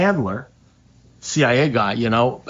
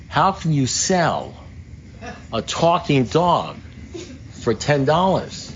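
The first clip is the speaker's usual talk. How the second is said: incredulous; 4 semitones higher, slower than usual. Retold or imitated. Incredulous question to owner.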